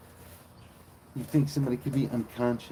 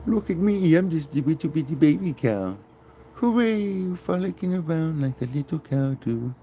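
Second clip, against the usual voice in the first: much higher, louder squeaky calf voice; baby cow voice; 7 semitones higher, 5 dB louder than usual. Pretend. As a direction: speak as a giddy little calf.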